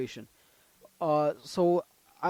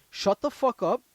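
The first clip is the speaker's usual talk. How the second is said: retold raised voice; 2 semitones higher than usual. Storyteller telling the tow driver to let him speak, raised voice. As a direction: push back forcefully, then ease toward normal. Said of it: "like, I'd raise my voice".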